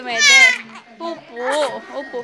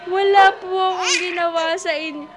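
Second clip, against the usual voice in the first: mock protest; 4 semitones higher, 3 dB louder than usual. Parent claims innocence to shouting baby, mock protest. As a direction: protest your innocence playfully, pitched up high.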